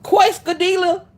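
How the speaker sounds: QUESADILLA botched as kway-skuh-DEE-luh; mispronounced. Retold or imitated. Imitating a customer who can't pronounce it, slowly botched. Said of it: "why can't nobody pronounce quesadilla".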